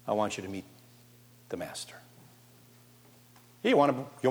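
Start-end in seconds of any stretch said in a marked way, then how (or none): 0.1-2.0 hushed reverent whisper; awed whisper. Real, not acted. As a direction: drop to a breath. Awed reveal of Jesus.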